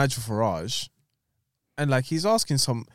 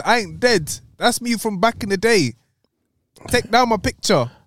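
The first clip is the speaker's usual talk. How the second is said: hammed-up loud quote; mock loud retelling; 8 semitones higher, 6 dB louder than usual. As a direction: retell it half-shouting, louder and higher. Retold Muhammad bit.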